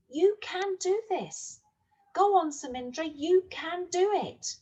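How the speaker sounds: inner voice. Acted. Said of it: "a little voice saying".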